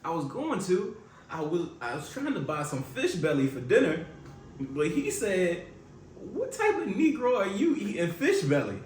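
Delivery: playing Marvin. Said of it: "Why are we so country?".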